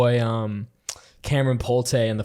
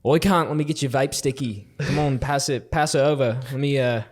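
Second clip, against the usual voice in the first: put-on Australian accent; 2 semitones higher than usual. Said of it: "talking in Australian accents".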